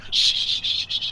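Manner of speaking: whispered shushing. Acted. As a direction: hush him while covering his mouth. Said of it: "I go".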